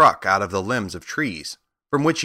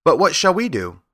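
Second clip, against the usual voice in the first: high little mouse queen voice; squeaky royal question; 8 semitones higher than usual. A narrator's reading. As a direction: ask in a small, raised voice.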